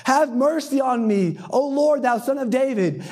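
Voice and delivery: high, drawn-out plea; crying out. Retold or imitated. Woman calling after Jesus for mercy, crying out. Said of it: "crying out".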